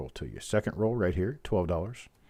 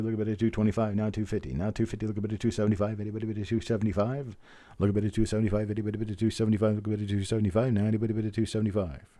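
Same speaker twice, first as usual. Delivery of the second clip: rapid auctioneer chant; frantic trading floor shouting; faster than usual. Acted. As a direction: rattle off the bids like an auctioneer. Runs a coin roll auction.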